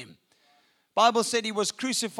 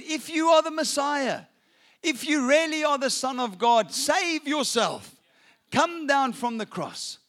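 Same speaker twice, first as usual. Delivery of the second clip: mock taunt; 5 semitones higher than usual. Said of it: "They laughed at him, they scoffed".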